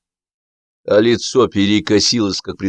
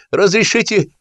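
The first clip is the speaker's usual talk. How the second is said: high, pleading call-out; eager petitioner raising his voice; urgent calling; 11 semitones higher than usual. A narrator's reading. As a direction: call your request over the crowd. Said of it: "крикнул Стасик, протискиваясь к канату".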